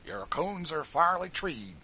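high, loud slow gloat; slow, loud rough jeer; gloating slave catcher. A narrator's reading. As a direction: crow over the trapped quarry. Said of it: "said one".

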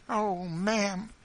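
high, loud desperate appeal; wild. A narrator's reading. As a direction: cry out wildly to the mistress. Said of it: "she said wildly to Missus Bird".

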